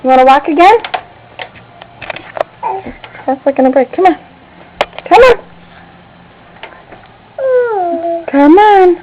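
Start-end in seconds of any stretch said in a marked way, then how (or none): 3.9-9.0 higher cheering come on; encouraging. Real, not acted. Mother cheering her toddler's steps, higher.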